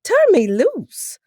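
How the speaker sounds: high, slow holler. A narrator's reading. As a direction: shout to be let go. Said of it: "I hollered".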